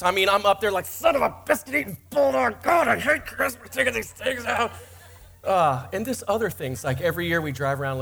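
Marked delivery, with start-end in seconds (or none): 0.9-4.7 mock cussing. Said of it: "Christian cuss words".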